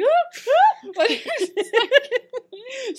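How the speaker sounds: high cackling laugh, loud. Retold or imitated. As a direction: cackle through the words like a villain. Mock evil laugh while talking.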